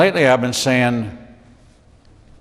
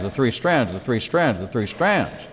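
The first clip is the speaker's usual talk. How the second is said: each repeat softer; trailing off, softer each time; fading repetition; 6 dB quieter than usual. Acted. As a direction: let the phrase die away. Repeating the phrase mockingly.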